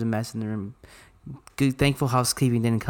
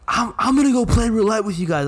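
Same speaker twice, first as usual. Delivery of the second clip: mock drunk voice; 9 semitones higher, 5 dB louder than usual. Mocking drunk friend.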